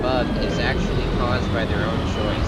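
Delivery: reading it like a whiny nerd; smug nerd reading aloud; nerdy voice. Shown as a demonstration. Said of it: "Allow me to read it in a nerdy voice".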